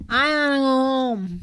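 put-on slow, slurred toddler talk; Lil A. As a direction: run the words together like a little kid. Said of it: "And Lil A kept saying".

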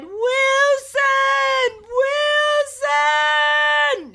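loud anguished call of a name; mock heartbroken scream; crying shout. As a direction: wail the name across the sea. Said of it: "He cried".

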